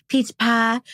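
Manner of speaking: Peach pie. with a hint of a Southern accent; a playful touch of Southern drawl on Peach pie; light Southern accent. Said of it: "I don't know why I get an accent".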